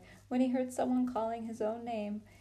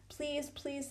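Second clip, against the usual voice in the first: soft, higher pleading please; a hushed boyish begging; soft sudden plea; 5 semitones higher, 5 dB quieter than usual. A narrator's reading. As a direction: slip in a quiet please, please. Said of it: "said Edmund suddenly".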